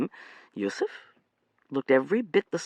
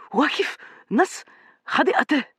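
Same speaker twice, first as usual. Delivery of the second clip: screamed; 13 semitones higher, 4 dB louder than usual. A narrator's reading. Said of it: "he screamed".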